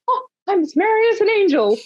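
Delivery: put-on high, beaming take on a merry old gent; a lifted, delighted Michael Caine voice; giddy Michael Caine. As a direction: play him as giddy as a schoolboy. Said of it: "seeing him all like".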